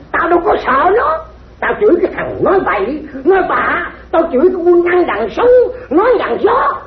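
high-pitched stage tirade; combative, high-voiced comic scolding; defiant quarrelling. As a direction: pitch it high and pile on the accusations. Defiant comic quarrel over cursing.

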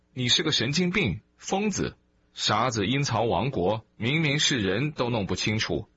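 mock a man you think has lost his mind; high, scoffing rebuke in retelling; scornful bystander. Bystander mocks him as crazy.

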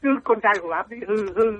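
ordinary delivery

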